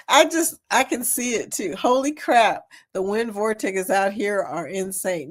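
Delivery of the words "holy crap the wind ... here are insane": wind on mic. Real, not acted. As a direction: wind blowing over the mic. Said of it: "the wind is crazy right now".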